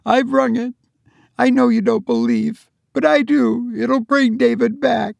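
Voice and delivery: high, fervent insistence; fervent belief. Acted. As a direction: insist with feverish hope.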